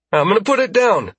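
high, anxious voice; nervous placating. Acted. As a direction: reassure the captor while frightened. Frightened guard placates armed alien.

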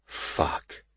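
barely voiced whisper of dread realization; whispered curse. A narrator's reading. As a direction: curse softly under the breath. Narrator realizes danger under his breath.

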